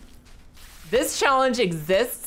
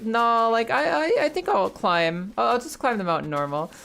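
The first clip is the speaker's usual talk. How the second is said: higher, lightly voiced stubborn young man; Nate's stubborn voice; 4 semitones higher than usual. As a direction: brush off the offer, a little higher. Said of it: "And Nate's like".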